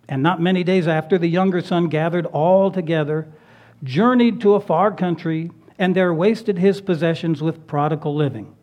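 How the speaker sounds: holding back tears while reading; after crying. Real, not acted. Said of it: "And I'm going to need a tissue".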